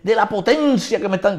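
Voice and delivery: high, loud insistence; agitated outcry. Retold or imitated. Appraiser insisting about the power, imitated loud high cry. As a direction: imitate someone crying out, cut off.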